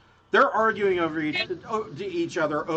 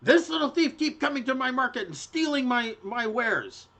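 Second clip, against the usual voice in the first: high-pitched aggrieved merchant; put-upon gnome shopkeeper; complaining gnome woman; 8 semitones higher than usual. Acted. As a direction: complain about the thief in a high voice. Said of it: "she says, uh".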